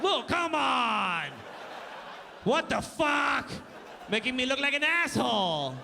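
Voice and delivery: a laughing fake outrage; mock outraged shout. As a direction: play the heckled fool, yelling with a laugh.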